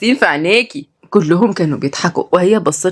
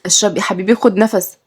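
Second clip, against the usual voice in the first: put-on higher, startled girl; alarmed; 3 semitones higher than usual. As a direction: jump in fretting for grandpa. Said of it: "وقالت مريم بخضة".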